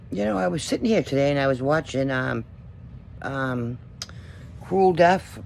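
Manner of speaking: lying down while talking; relaxed, talking from the couch; slumped on couch. Real, not acted. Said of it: "Sorry, I'm laying on my couch".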